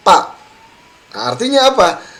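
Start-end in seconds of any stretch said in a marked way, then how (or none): 0.1-0.4 fa said as a hard pa; mock mistaken pa; wrong pa for fa. Shown as a demonstration. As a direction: swap fa for pa. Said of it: "huruf fa dibaca apa".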